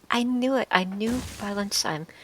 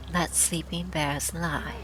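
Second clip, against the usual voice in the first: slow, deliberate saying; drawn-out proverb delivery; much slower than usual. Shown as a demonstration. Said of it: "Sleeping dogs".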